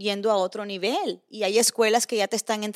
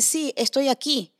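a lightly voiced small child, a bit higher and slow; innocent child; 5 semitones higher, slower than usual. Mother retelling a clip, lightly voicing her son's innocent, slow answer. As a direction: answer plainly, like an innocent little boy. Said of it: "El niño dijo inocentemente".

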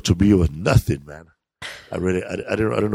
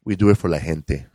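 mock hipster; 4 semitones lower than usual. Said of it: "idiots like that".

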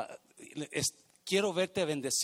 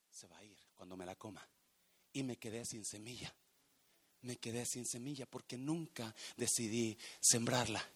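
much softer, intimate preaching; hushed sermon; 2 semitones lower, 8 dB quieter than usual. Acted. Pastor reflects to the church on the kept seed, hushed murmur. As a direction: drop down to a near murmur. Sudden quiet after climax.

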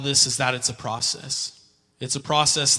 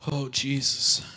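whispered prayer; slower than usual. Real, not acted. Quiet prayer aside.

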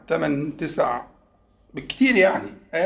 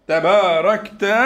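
تباركت drawn out slowly, each syllable weighted; slow stressed word; 4 dB louder, much slower than usual. Shown as a demonstration. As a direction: stretch out تباركت as the key word. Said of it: "تباركت اللي لسه محمد شارحها". (نطق بطيء مشدد)

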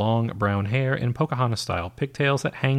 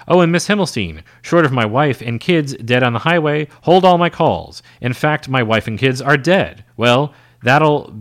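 loud, higher call across the room; yelling out; 4 semitones higher, 6 dB louder than usual. Acted. Agent calls after his secretary at the door, a loud shout. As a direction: shout the order after her. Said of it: "Marvin yells out".

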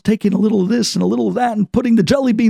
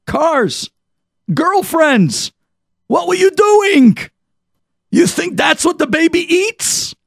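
building scolding; 9 semitones higher, slower than usual. Acted. Mother scolding the careless brother, building to a shout. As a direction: scold him harder with each word.

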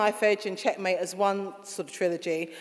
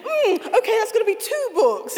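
amused thought; 13 semitones higher, 4 dB louder than usual. Real, not acted. Laughing at story outgrowing one book.

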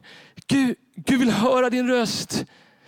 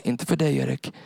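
enemy's whisper; 8 semitones lower than usual. Acted. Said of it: "den där viskningen som inte är Gud".

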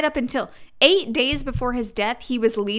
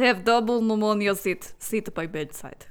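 put-on Russian accent. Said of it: "I'm not sure where that guy's from".

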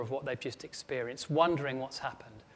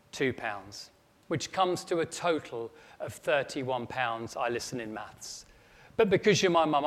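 put-on cheeky kid's bill; 6 dB louder than usual. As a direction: read it like a proud kid presenting his invoice. Boy reads his bill to mum.

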